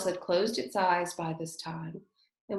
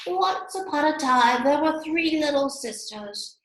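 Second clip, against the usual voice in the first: in a great hurry; 8 semitones higher, 6 dB louder than usual. Acted. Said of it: "in a great hurry".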